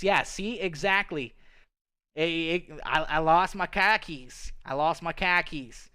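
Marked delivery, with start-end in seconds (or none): 3.0-5.9 lightly put-on Boston accent; Boston, New York accent. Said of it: "that's like a Boston, New Yorkian kind of saying".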